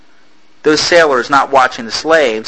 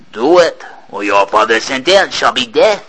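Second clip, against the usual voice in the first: stern threat. Acted. Captain threatening.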